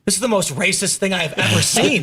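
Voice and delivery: laughing through a mock-outraged line; half-laughing, playing up the outrage; imitating a friend cracking up at the screen; laughing disbelief. Seamus's shocked reaction retold.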